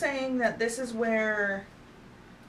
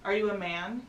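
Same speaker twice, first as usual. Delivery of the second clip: talking to a ghost. Real, not acted. Asks ghost aloud.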